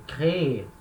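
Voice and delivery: "créer" with its final É fully spoken; strong last syllable. Shown as a demonstration. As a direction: say "créer" as cré-É, two syllables. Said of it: "tenho que falar ela".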